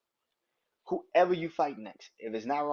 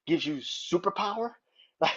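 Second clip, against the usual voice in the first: incredulous laugh; 3 semitones higher than usual. Real, not acted. Mocking the weight-loss excuse.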